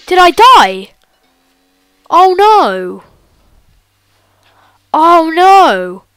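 shrieking in fright at the monster; panicked. Real, not acted. Caught by Slender, dies.

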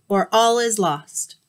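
slow, loud warning; commanding. Acted. Zeus warns Hermes all is lost, slow and commanding. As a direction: lay down the stakes gravely. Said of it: "he commanded".

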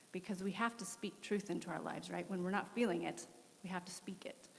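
ordinary delivery

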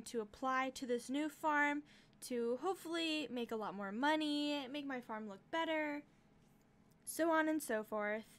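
talking while crunching chips; words through a mouthful of chips. Real, not acted. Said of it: "I apologize for the crunching and the gulping".

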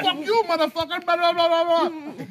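high, loud mock tirade; hammed-up yelling match; retold angry quarrel. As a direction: rant high and fast-tempered, imitating a row. Acted shouting match with store owner.

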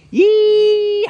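big cowboy yeehaw shout. Shown as a demonstration. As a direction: holler it out loud and high. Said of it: "No, you gotta say".

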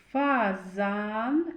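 "Фазан" with the last "а" held long; sounding out second A. Shown as a demonstration. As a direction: stretch the final vowel of "Фазан". («Фазан» з протяжним другим «а»)

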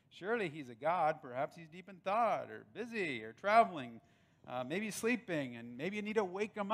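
sarcastic jeer rising at the end; mocking taunt. Pastor retells Elijah taunting Baal's prophets, mildly mocking. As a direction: needle them with a smirk. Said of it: "look at the language he uses".

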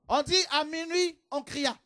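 slow, loud and high on à minuit; stressed midnight cry. Shown as a demonstration. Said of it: "Il faut crier". (cri de minuit appuyé, lent et fort)

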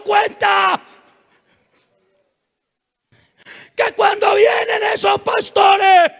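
high, loud, outraged daughter. Retold or imitated. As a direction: shout a protest at your father, phrase by phrase. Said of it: "un hijo le alce la voz". (hija gritándole indignada al papá)

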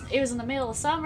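put-on Southern accent. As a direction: read it with a bit of a Southern twang. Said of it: "the only accent I can do".

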